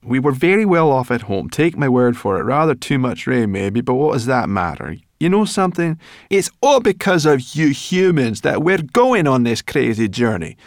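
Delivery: furious little creature tirade; indignant brownie rant. Acted. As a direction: scold him harder and harder. Sorrel rants at the human boy.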